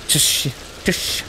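Tush as a broken-off first syllable, T sounded; hissy, mostly voiceless Tush; sounding out TS. Shown as a demonstration. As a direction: demonstrate the T and sh in Tush. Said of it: "It's a T S".

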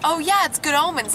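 high, pleased burst of recognition; retold excited fan; imitated fan recognition. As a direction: voice a passer-by who just got the reference. Imitates people who recognise costume.

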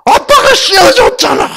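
put-on high, loud, laughing child's accusation; child blaming daddy. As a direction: cry it out like a daughter blaming her dad. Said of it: "그랬더니".

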